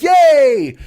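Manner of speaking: high, loud hurrah; mock crowd cheer.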